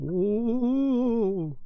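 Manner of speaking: very high, stretched, spooky ghostly "ooh". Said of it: "that's my ghost impression".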